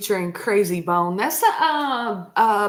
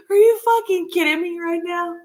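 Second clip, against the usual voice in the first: higher, incredulous retelling of her reaction; replaying the shock in a raised voice; retold disbelief; 9 semitones higher, 3 dB louder, faster than usual. Telling viewers how she reacted to her daughter's quote, raised and incredulous. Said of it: "I was like".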